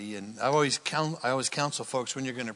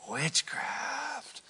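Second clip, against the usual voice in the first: "Witchcraft." drawn out high and soft; dramatic reveal; 11 semitones higher, 7 dB quieter than usual. Acted. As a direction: let the word hang as a dark reveal. Preacher lands the verse's key word.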